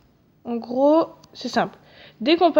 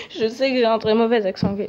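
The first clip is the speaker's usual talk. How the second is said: a laugh running into the words; amused, laughing confession; laughing admission. Real, not acted. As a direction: own up to it, amused. Laughs at own bad accent.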